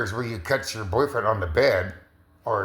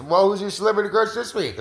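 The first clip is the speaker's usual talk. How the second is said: mock friend asking; 7 semitones higher than usual.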